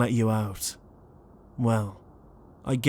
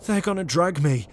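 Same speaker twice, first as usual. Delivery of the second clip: panicking; 4 semitones higher than usual. Acted. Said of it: "We're in full panic mode right now".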